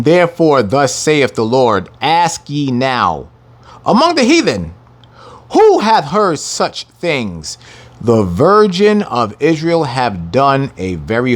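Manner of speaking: slow, drawn-out scripture reading; solemn King James reading. Acted. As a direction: lean into each old word. Preacher reads scripture aloud.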